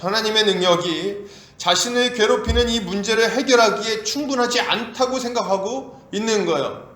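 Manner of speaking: usual speaking voice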